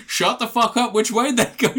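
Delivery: high mock barked order; hammed-up soldier snap. Soldiers snap at the dead man, a mock high bark. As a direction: bark at him, half laughing.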